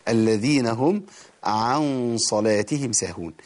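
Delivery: ordinary talk, nothing marked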